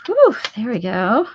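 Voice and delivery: breath released with relief; relieved exhale. Real, not acted. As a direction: blow out the held breath. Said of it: "Had to hold my breath".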